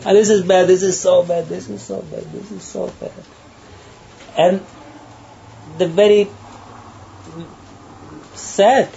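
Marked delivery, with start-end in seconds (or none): 0.1-3.1 mock disapproval. People judging everything around them, high mock disapproval.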